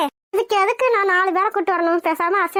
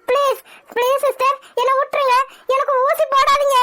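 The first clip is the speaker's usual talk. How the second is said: agitated, raised-voice begging; frightened pleading; 3 semitones higher than usual. Acted. Patient begging the nurse not to inject, frightened pleading. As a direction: beg desperately to be let off.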